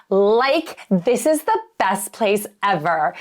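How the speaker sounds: put-on light valley girl with a rising "Like"; a hint of valley girl, bubbly and breezy. Shown as a demonstration. Realtor showing how valley girls talk, mild mock valley girl. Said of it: "Examples of speaking like a valley girl".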